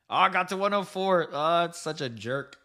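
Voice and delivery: high-pitched, laughing groan at a near miss; real amused exasperation, voice jumping high. Real, not acted. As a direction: laugh through the disappointment, pitched well up. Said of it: "Sorry, I'm laughing".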